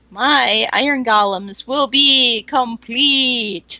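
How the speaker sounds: slow grand proclamation; dramatic announcement. Acted. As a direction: announce it like a proud creator. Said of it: "Just need a mwahahaha".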